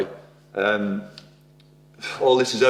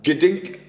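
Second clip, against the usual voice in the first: higher imitated gadink clunk; clunk noise; 5 semitones higher than usual. Shown as a demonstration. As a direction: say gadink like a metal knock. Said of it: "Like that".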